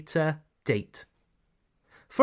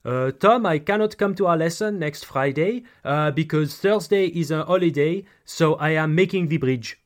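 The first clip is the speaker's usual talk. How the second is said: light imitation of a French accent; a hint of a French accent in English. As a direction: mildly mimic a French student speaking English. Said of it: "Sorry for the bad accent".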